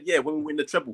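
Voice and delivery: with his chest. Retold or imitated. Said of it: "He said it with his chest".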